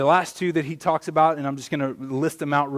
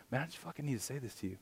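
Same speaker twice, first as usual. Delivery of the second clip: urgent inner voice; 15 dB quieter, much faster than usual. Retold or imitated.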